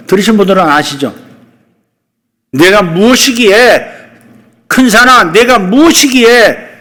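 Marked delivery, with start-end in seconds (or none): 2.5-6.7 loud, high, slow prophetic cry to the mountain; proclaiming prophet. Retold or imitated. Preacher voicing Zechariah's cry to the mountain, proclaiming loudly. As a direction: call out to the great mountain. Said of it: "그러잖아요".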